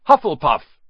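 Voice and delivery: short, high burst of a shout; shouted announcement. A narrator's reading. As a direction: shout the verdict to the whole hall. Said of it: "shouted the hat".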